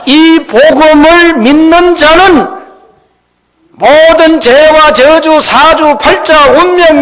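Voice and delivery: loud, high, drawn-out proclamation; full-force preaching. Real, not acted. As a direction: proclaim each title to the whole hall.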